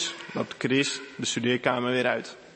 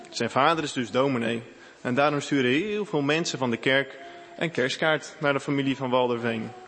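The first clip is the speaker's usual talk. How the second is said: usual speaking voice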